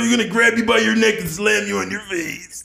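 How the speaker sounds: fast, high, shouting promo; Macho Man impression. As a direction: growl out a wild wrestling promo. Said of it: "He's like".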